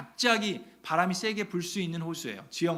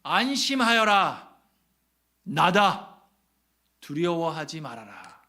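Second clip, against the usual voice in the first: louder, slow, commanding call; Jesus calling over the storm to frightened disciples; calling out reassurance; 4 dB louder, slower than usual. Acted. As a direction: call across the waves to calm them. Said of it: "라고 외치십니다".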